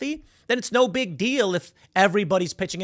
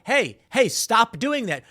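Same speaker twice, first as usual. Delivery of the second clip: higher-pitched call to stop; urgent calling out; 5 semitones higher, slower than usual. Acted. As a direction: cut in with an acted warning. Acted calling out to stop someone.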